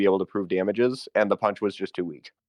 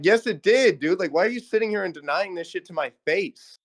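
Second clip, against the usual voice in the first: raised, higher exasperated retort; exasperated confrontation; 8 semitones higher than usual. Retold or imitated. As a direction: call him out, voice climbing. Confronting Peter as he denies it.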